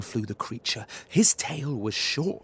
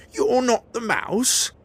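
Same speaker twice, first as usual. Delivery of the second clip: put-on high, loud questioning child voice; the kid, disappointed and puzzled; surprised child; 11 semitones higher, 10 dB louder than usual. Gruffalo's child asking the snake, surprised.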